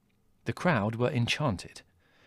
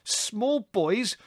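high-pitched indignant outburst; incredulous, then cursing; angry cry; 8 semitones higher, slower than usual. A narrator's reading. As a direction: throw the words back in outrage. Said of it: "cried Larry angrily".

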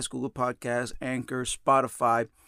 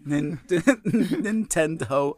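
laughing; 2 semitones higher, much slower than usual. Real, not acted. Laughing repeat of title.

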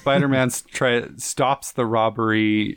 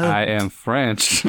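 put-on slow, lower French accent; 4 semitones lower, much slower than usual. Maître d' at a fancy restaurant, mock French accent. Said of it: "He's like".

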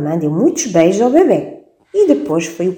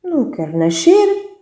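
put-on much higher little baby voice; the baby refusing to be born, high baby voice; 9 semitones higher than usual. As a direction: squeak like a tiny stubborn baby. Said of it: "respondeu o bebê".

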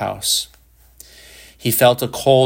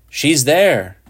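high, louder cry of joy; excited cry; 6 semitones higher, 5 dB louder than usual. A narrator's reading. Boy cries out at what he sees, high and excited. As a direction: blurt it out in wonder. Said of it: "he cried".

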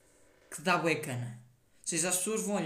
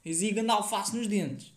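mock shout; 2 semitones higher, 4 dB louder, slower than usual. Shown as a demonstration. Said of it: "eu não vou gritar".

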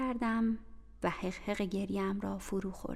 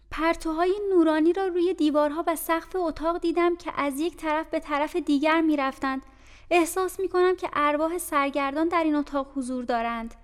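put-on frightened child; 6 semitones higher, 6 dB louder than usual.

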